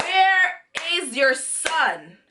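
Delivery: slow, word-by-word demand; retold pointed question. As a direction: space out each word deliberately.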